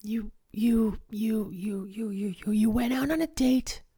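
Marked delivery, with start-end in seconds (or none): 0.0-2.7 stunned, breathless stammer; barely voiced, reeling from the news; shocked whisper.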